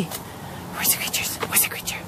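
hushed slow whisper. Real, not acted. Owner whispering to the dogs as they creep toward the creatures. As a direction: whisper like sneaking up.

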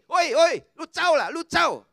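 disciples barking at her to go away; mock shout; shooing shout. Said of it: "Mereka kata begini".

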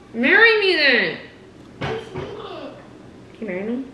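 slow, pleading; mood swings. Acted. Sudden pleading proposal.

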